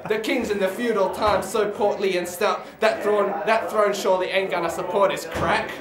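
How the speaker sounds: spoken-word comic history in verse; poetry recitation. Acted. Poet recites a history of alcohol, declaimed. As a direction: declaim it to a live crowd. Recites own poem to audience.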